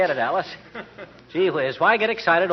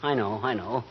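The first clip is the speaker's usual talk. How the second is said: lower, softer, gently contrite; soft apology; 7 semitones lower, 7 dB quieter than usual. Acted. Husband comforting his crying wife, soft and lower. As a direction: talk her out of tears tenderly.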